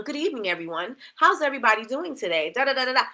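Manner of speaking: mildly stiff, proper customer-service greeting; lightly put-on proper voice; formal robotic greeting. Shown as a demonstration. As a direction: read it like a generic scripted welcome. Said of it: "Y'all know I don't speak like that".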